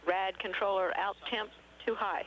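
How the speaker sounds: radio call, too stressed; crackly radio, lean into too; sci fi communicator. Real, not acted. Radio call, then crew readback.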